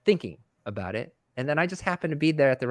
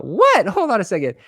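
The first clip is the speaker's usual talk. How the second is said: mock disbelief; 9 semitones higher, 8 dB louder than usual. His stunned reaction, retold.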